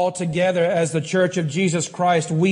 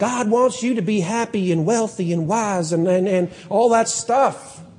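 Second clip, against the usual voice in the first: sarcastic, mocking put-on televangelist-style preacher accent; 2 semitones higher than usual. Criticizing a teaching the speaker cringes at, mocking put-on accent. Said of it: "I'll do it in the accent".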